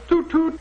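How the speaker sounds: steam whistle imitation. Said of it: "he'd sit in the stern and go".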